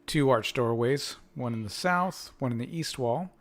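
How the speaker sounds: slow descriptive scene-setting; game master narration. A narrator's reading. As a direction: read the boxed text like a storyteller. GM reads room description.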